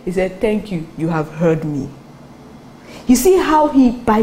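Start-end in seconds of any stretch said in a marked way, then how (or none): 0.4-1.9 settled, assured thanks at an easy pitch; prayer of faith. Retold or imitated. Preacher showing Jonah's prayer of faith, calmly assured. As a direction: give thanks as if already answered. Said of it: "praying the prayer of faith".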